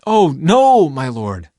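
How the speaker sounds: high, loud cry of dismay; desperate begging. A narrator's reading. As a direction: plead in alarm. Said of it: "Lot begged".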